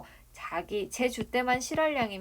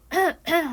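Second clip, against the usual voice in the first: short, higher imitation throat-clearing; dignified dry cough; 8 semitones higher, 6 dB louder than usual. Changsik announces himself from the yard, dignified dry cough. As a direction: give two short, genteel mock coughs. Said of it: "점잖은 밭은 기침소리가 납니다".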